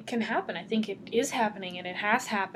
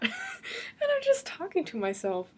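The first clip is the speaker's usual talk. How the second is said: slow, laughing through the words; 9 semitones higher than usual. Real, not acted. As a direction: giggle it out, almost crying. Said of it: "I'm laughing".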